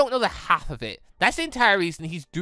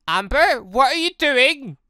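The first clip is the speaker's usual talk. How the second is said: louder, higher, drawn-out cry of alarm; alarmed call; 7 semitones higher, 7 dB louder, slower than usual. Acted. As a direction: call her name in alarm, slowly. Alarmed character calls out.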